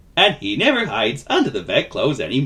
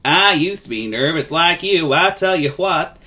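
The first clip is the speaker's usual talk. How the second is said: higher, drawling folksy voice; friendly vagabond; 7 semitones higher, 4 dB louder than usual. Acted. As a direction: confide kindly in a nervous little chap. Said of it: "said the vagabond".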